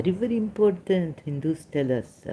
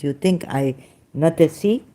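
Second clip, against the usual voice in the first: ordinary talk, nothing marked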